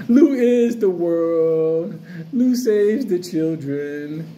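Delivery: a slow, grand mock anthem line; mock music video slogan. Vlogger imagining his own music video, slow grandiose mock slogan. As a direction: stretch it out like a vain billionaire's slogan. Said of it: "like the weirdest fucking billionaire".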